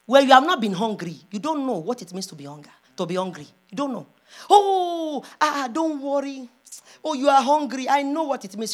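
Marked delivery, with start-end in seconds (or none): 4.5-8.7 mock sympathy. Mimicking people who claim to know hunger, mock sympathy. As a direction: stretch the words in put-on concern.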